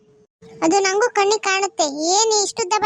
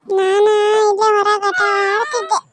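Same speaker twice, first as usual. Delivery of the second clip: put-on little girl voice. Granddaughter answers grandma.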